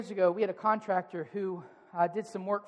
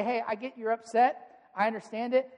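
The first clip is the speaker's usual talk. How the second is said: calm. Shown as a demonstration. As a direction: stay calm and steady, no heat. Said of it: "You calmly say".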